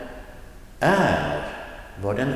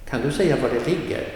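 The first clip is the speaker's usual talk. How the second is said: quicker model; 4 semitones higher, faster than usual. Shown as a demonstration. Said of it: "something with var".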